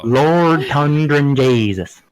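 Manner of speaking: slow, wobbling Newfoundlander voice; lightly done Newfoundland exclamation, slow; wobbly Newfoundland accent. Pretend. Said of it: "you gotta wobble the voice a little bit".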